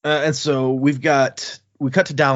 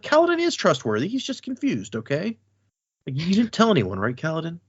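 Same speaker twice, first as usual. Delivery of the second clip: nervous excuse; 6 semitones higher than usual. Acted. Moash nervously covering for Kaladin.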